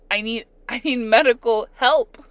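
loud, high mock panic breaking into laughter; retold frantic plea. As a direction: imitate being beside yourself, laughing. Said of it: "I was beside myself".

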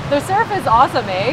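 Canadian "eh" tagged on the end; Canadian accent. Shown as a demonstration. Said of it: "was such a Canadian".

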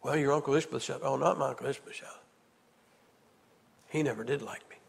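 put-on the frightened boy fearing his uncle; a lightly voiced, hushed fearful child; scared little boy. Voicing frightened five-year-old boy.

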